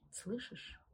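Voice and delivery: soft menacing hiss; creeping nightmare whisper. Acted. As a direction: breathe it out, threatening. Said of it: "прошипела". (зловещий шёпот)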